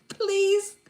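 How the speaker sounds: playful pleading at a lost viewer; mock begging. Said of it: "I'll beg him".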